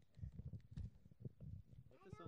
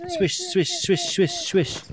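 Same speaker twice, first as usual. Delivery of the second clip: swish sounds; 13 semitones higher, 4 dB louder, much slower than usual. Acted. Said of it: "do the splashes with me".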